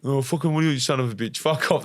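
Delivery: affectionate imitation of a swearing father; cursing dad retold. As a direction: brush your son off like a grumpy dad. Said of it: "That's how he talks to me".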